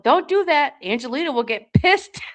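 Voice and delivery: high, loud urgent cry breaking into a laugh; a friend's loud, alarmed plea; alarmed warning. Retold or imitated. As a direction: warn them loudly, half laughing. Quoting friend's warning in retelling.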